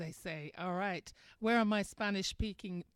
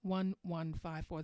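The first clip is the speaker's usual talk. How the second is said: number read out slowly, digit by digit; radio host dictating the call-in number; slow dictation; slower than usual. Real, not acted. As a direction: spell the phone number out slowly for listeners. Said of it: "let me give you that number".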